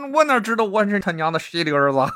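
high, fast, breaking into laughter; laughing through the line. Acted. Xiuquan answering God, laughing through the line. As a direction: giggle while playing the baffled son. Storyteller cracks up playing Xiuquan.

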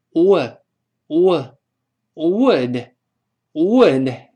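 "would" drawn out slowly, lips opening from w; slow, loud repetitions of "would"; drilled "would". Shown as a demonstration. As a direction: model "would" slowly with a short lax vowel. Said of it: "然后后面发哦".

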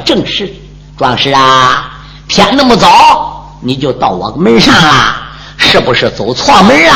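put-on a wary old man, speaking low; a hint of a cautious old squire. Old squire voiced in story.

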